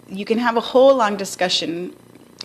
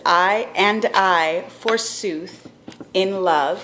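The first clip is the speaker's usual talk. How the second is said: verse reading; much slower than usual. Shown as a demonstration. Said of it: "And it says".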